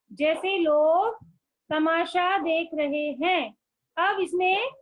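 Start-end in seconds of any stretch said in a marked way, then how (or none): 0.1-3.5 slow dictation. Shown as a demonstration.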